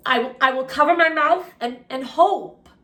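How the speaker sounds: a lightly voiced nervous Henry; nervous stammer. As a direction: stumble over the words, hoping.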